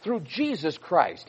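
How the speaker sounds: "Through Jesus Christ" slowed, each word of "Jesus Christ" leaned on; drawn-out, weighty "Jesus Christ"; stress on the name. Shown as a demonstration. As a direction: linger on "Jesus Christ" to make them hear the name. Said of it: "he's saying the name".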